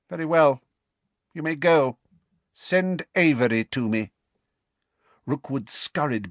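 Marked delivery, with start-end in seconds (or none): 0.1-4.1 cold dark lord. Acted. Dark lord dismisses servant.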